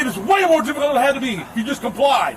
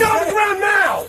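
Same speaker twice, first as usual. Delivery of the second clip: shouted order; 6 semitones higher than usual. Real, not acted. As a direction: bark it at full volume. Officer yelling orders.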